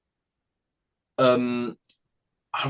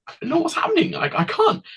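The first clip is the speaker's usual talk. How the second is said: put-on panicked child; faster than usual. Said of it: "I'm like".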